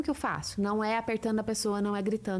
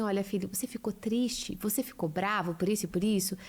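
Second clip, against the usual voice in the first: put-on lower, calm mother explaining anger to her child; gentle teaching mother; 4 semitones lower than usual. Mother calmly teaching her angry child to breathe, lower voice. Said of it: "a gente conseguir falar assim".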